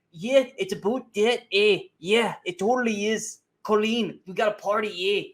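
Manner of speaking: high, stagey mock Canadian accent; Austin Butler. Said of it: "like, talking like".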